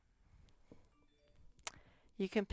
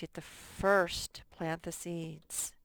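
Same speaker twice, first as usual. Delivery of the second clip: slow model reading. Shown as a demonstration. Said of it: "teacher models sentence slowly".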